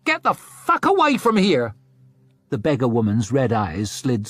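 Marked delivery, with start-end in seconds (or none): 0.0-1.7 high, loud furious snarl; a high, loud snarl of disgust. A narrator's reading. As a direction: spit it at the beggar. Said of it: "snapped the window down and snarled".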